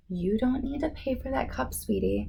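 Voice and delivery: mom's quiet kindness; gentle comfort. Acted. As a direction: soothe the crying girl. Mom comforts crying girl.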